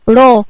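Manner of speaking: "را" as an open "ra"; fatha on ra. Shown as a demonstration. Teacher explaining fatha to children, open "ra" for "را". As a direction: sound out "را" with an a vowel. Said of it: "الراء هنا عليها ايه؟".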